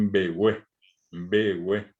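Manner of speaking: begüe as mbegüe with nasal mb onset; prenasal mb. Shown as a demonstration. Teacher models mb sound for class, mbegüe. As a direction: hum an m into begüe. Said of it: "Yo quiero decir".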